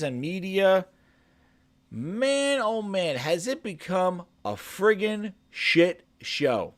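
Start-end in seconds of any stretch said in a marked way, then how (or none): 3.2-6.7 'shit' hit hard, phrase slow; stress on shit. Shown as a demonstration. Vlogger ranting about insiders, stressing 'shit'. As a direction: lean heavily on the word 'shit' in 'shit show'. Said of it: "Emphasize on the shit".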